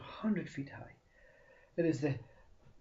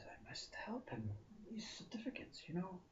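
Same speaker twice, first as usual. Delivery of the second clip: tree's whisper; 6 semitones higher, 11 dB quieter than usual. Acted. Tree speaks to itself.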